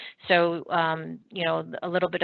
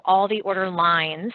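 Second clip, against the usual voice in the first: "lines" given extra weight; stress on LINES; 3 dB louder than usual. Real, not acted. Presenter explaining the list on screen, stressing "lines". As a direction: lean on the word "lines". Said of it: "I emphasize the word lines".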